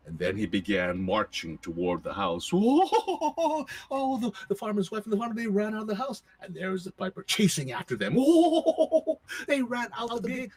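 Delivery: high, laughing telling; laughing narration. A narrator's reading. Storyteller gleefully recounting the chase, laughing. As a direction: giggle through the chase.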